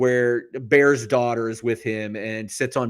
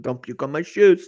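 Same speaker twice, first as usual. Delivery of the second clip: Bones impression, corrected; 3 dB louder than usual. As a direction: deliver the exact line in his gruff manner. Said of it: "That's what he said".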